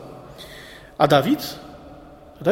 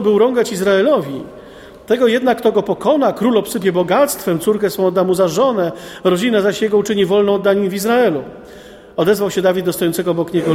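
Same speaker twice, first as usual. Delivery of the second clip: raised, declaiming Bible reading; scripture reading; 3 semitones higher than usual. Acted. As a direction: proclaim the text to the men. Reads the Bible passage aloud. (podniosłe czytanie Pisma)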